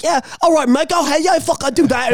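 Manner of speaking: lightly put-on Australian accent. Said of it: "or whatever dumbass Australian accent".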